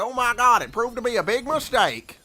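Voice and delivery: high, loud alarmed chef shrieking at a surprise; a cook losing his head over a living bread; panicking cook. Acted.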